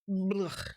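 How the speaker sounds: throaty noise of disgust; disgusted blech. Real, not acted. Streamer attacked by hair and fur, disgusted splutter. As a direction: spit out an exaggerated yuck.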